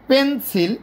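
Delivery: "পেনসিল" slowly in two beats, pen, sil; split into syllables. Shown as a demonstration. Teacher counting two syllables, "পেনসিল" slowly split. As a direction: draw out "পেনসিল" with a break after pen. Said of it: "এটা দুইটা syllable এখানে রয়েছে".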